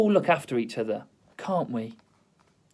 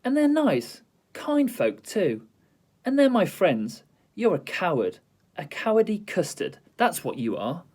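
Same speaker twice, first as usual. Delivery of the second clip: raised, indignant telling-off; girl lecturing a cowardly lion; scolding; 4 semitones higher than usual. Acted. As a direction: give the bully a piece of your mind.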